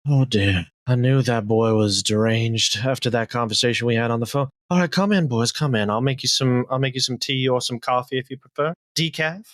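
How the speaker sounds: put-on sigh, then fuss over the boys; sighing hostess. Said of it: "She sighs deeply and she goes".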